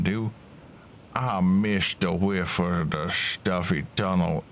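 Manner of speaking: lightly put-on rough-and-ready miner; a touch of a drawn-out miner's voice; lightly voiced mine worker. Miner telling Dougie about the blocked rock, lightly put-on voice.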